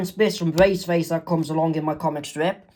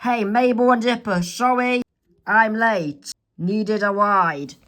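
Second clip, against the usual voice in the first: put-on higher, casual teen greeting; Wendy's voice; 4 semitones higher than usual. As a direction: apologize for being late.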